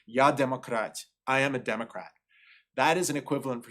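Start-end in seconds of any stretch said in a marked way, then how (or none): 0.1-1.0 Russian "Я демократ" with native Russian vowels and rolled r. Shown as a demonstration. Lecturer quoting a Russian phrase, spoken in native Russian. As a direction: say "Я демократ" as a Russian speaker would. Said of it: "if you say in Russian".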